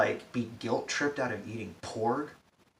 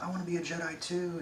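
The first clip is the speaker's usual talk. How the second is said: higher, fast, eager imitation of Rey; mock eager Rey; 8 semitones higher, faster than usual. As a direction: blurt it out like a keen kid. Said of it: "Rey could be like".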